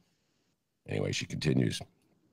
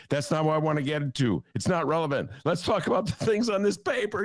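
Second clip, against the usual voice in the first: impatient imitation, rising higher as it builds; Bernie Sanders; 5 semitones higher than usual. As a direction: insist on getting back to the agenda, mock-exasperated. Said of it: "and he says".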